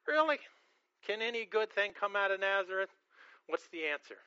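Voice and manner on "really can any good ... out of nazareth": mock disbelief. Preacher voicing Nathanael's doubt about Nazareth, mild incredulous scoff.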